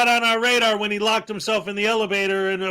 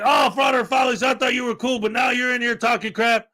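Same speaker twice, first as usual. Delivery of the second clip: mocking angry streamer; 4 semitones higher than usual. Imitating the streamer kicking him from chat, mock yell. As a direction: play the offended streamer calling for a ban. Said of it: "He's like".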